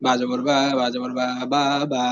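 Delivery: stretched vowels on বা জবর বা, the way not to say it; wrong drawn-out demo. Shown as a demonstration. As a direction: drag out each বা with a long pull. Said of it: "অর্থাৎ এমন যাতে না হয় যে".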